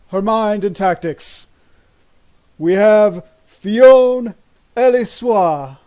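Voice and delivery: slow, drawn-out announcer call; hype man. Acted. Hype man introducing the fighters to a hushed ring, slow and drawn out. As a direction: build the hype, stretch the name. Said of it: "the hype man comes out".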